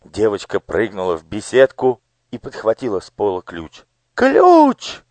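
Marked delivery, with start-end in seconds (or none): 4.1-5.0 shrieking, much higher and louder; screech. Acted. Daughter seeing the girl grab the key, shrieking. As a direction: shriek the word out. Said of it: "завопила Анидак".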